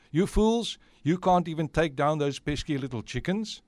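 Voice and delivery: loud, high burst of acted contempt; harsh scolding. Witch berating her own children, harsh scolding. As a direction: scold them harshly, hitting the first words. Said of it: "Do you have to say it like that? Isn't it too harsh".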